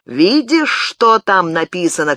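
loud rough gatekeeper shout. Acted. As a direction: bark it at her, high and loud. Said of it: "кричал он".

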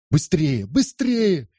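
very high frantic shouting. A narrator's reading. Andrea to everyone: very high frantic shout. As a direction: shriek at them to run. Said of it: "кричал Андреа".

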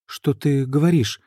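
put-on girl bewildered by his reaction, helpless; helpless question. A narrator's reading. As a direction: ask it as if the ground gave way. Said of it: "беспомощно спросила она".

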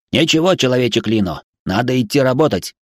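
insistent high robot voice. Acted. Robot Spy.

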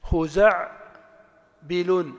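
خزع, long pause, then بل; syllable by syllable. Shown as a demonstration. Teacher testing whether the intonation matches, syllable by syllable. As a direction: break the word into خزع and بل, two separate beats. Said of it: "ليست نفس التنغيم".

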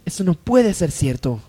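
soft, low, anxious denial; hushed disbelief. Acted. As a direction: refuse to believe it quietly. Disbelief at news in Mendoza home. (incredulidad en voz baja)

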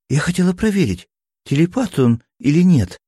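put-on high, fast girl's voice making excuses; justifying herself. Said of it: "оправдывалась Эри". (высоким девичьим голосом оправдывается)

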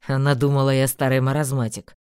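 lightly voiced young man; Einar voice. A narrator's reading. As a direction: read him low and offhand.

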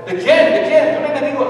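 can't believe who it is; surprised question. Acted. Acted dialogue with the police.

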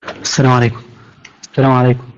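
choppy broken internet audio; greeting over a cutting connection; corrupted glitchy audio. Real, not acted. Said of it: "إن الصوت عندي متقطع جدًا".

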